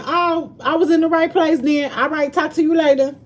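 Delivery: high, bright and breezy, pushing the call to an end; chirpy brush-off. Retold or imitated. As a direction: sing it out, already hanging up. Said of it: "I said".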